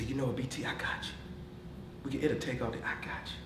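soft, quiet reassurance; gentle encouragement. Retold or imitated. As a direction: comfort a struggling teammate.

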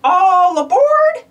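conductor's call. Acted. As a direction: call everyone onto the train. Calling out to board train.

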